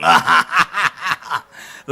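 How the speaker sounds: loud staccato laugh; exaggerated cackle. Opens with exaggerated horror-style cackle.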